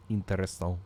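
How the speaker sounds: odd put-on voice; plain. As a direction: say it in a funny voice. Repeats word differently.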